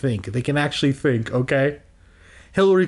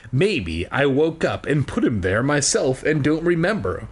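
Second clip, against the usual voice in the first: measured read-aloud storytelling; story narration; slower than usual. Acted. Reading a children's book aloud to listeners, storytelling. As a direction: read it out slowly and clearly like a storybook.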